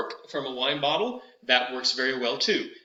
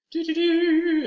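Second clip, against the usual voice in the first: high sung do do do; elevator sweep; 14 semitones higher, 4 dB louder, slower than usual. Shown as a demonstration. Warm-up elevator on do for students. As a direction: ride the pitch up like an elevator. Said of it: "elevators are an excellent way".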